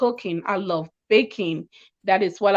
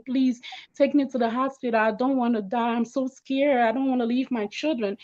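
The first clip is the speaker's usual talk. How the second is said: higher, scared pleading, lightly tearful; retold crying plea; 4 semitones higher than usual. Begging her friend to take her to hospital, tearful plea. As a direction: plead to be saved, voice raised in pitch. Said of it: "I'm just crying".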